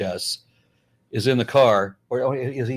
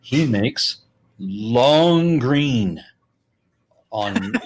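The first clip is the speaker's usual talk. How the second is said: drawn-out mock; 4 dB louder, much slower than usual. Mocking how he profits.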